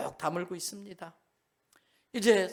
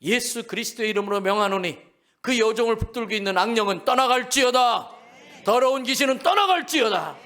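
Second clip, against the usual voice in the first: shouted command, rising louder to the end; commanding exorcism; 3 semitones higher, 8 dB louder than usual. Retold or imitated. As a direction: cast the demon out with full force. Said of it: "그래서 명령합니다". (귀신을 꾸짖어 쫓아내는 외침)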